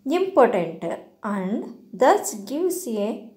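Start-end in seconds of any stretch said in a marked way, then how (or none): 0.1-0.8 "important" with the weight on IM; stress on first syllable. Shown as a demonstration. Teacher showing how the misplaced stress sounds, first syllable of "important" stressed. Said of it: "on the first syllable, which sounds".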